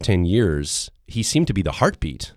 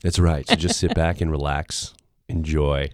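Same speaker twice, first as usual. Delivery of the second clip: low, rough, husky; hoarse voice; 2 semitones lower than usual. Real, not acted. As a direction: talk with a worn-out throat. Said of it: "it's the deep voice and not the gone voice".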